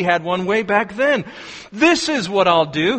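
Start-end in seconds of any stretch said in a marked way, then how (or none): 1.7-3.0 exclaimed. Acted. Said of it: "he exclaimed".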